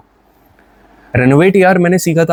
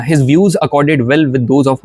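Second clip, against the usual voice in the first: very slow, careful reading; slow example sentence; much slower than usual. Shown as a demonstration. Teacher slowly reading an example sentence to the class. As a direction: spell out the sentence word by word.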